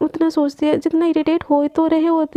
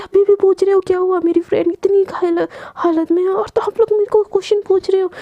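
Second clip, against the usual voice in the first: angry yelling; 3 semitones higher than usual. Acted. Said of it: "पागल ऐसे चीखती चिल्ला रही होती है".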